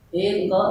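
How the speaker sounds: "Iqra" with a clear final u-vowel for many people; plural command. Shown as a demonstration. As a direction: model "Iqra" as a command to a group. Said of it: "Coba banyakkan yang disuruh baca".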